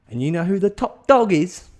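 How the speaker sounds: high, loud leading question; hammed-up conspiratorial punch; dramatic build-up. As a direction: tee up a big reveal. Harry builds to his big reveal.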